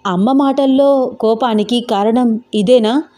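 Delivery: put-on anxious young man fretting under his breath; Venkat's worried thoughts. Venkat alone, stunned by the pregnancy news, worried monologue. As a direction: voice him panicking in his own head.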